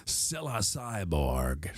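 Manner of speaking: slow, whispered trailer read. Acted. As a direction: breathe the name like a trailer tease. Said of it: "this movie trailer voice".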